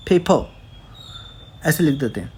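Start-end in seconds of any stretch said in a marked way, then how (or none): 0.1-0.5 पेपर as a quick-joined "phey-pho"; Korean-style पेपर. Shown as a demonstration. Teacher showing the Korean spelling, पेपर as "phey-pho". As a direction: puff the p, drop the r in पेपर. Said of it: "Korean as it is उसको".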